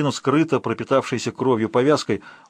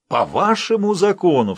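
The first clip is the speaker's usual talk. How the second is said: high, loud shout, hit on вашему; angry outcry; 8 semitones higher, 5 dB louder than usual. Acted. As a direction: spit back вашему in contempt. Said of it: "вскричал Ролло".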